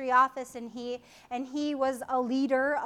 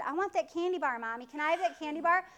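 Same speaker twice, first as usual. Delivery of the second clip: put-on begging child; faster than usual. Kid begging in grocery store.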